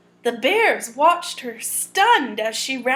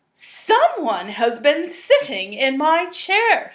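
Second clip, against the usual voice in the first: slow, a bit louder, a hint of a gruff papa; lightly voiced Papa Bear; 5 dB louder than usual. Reading to children, the papa bear finds his chair used, slow. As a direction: read slowly as the big bear.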